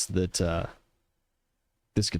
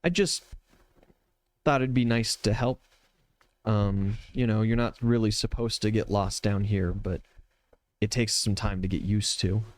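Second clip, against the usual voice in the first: timid. Acted. Winged Sophia shyly explains helping the lost visitor, timid. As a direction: begin shyly, with little pauses. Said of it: "incredibly timid".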